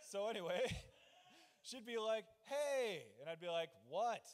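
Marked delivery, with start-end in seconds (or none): 2.4-3.0 higher, louder imitated call; mock yell. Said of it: "she would yell to me". 3.9-4.2 mock call back, a little louder; lightly hollered question; called-back reply. Answering wife from another room.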